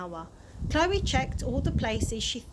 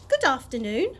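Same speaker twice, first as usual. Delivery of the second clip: bright greeting; 6 dB louder than usual. Acted. Chloe greets tramp.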